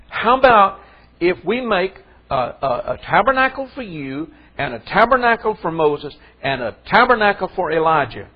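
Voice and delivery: Peter's eager offer, pitched high and loud. Acted. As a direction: blurt it out like keen, flustered Peter. Voices eager Peter on the mountain.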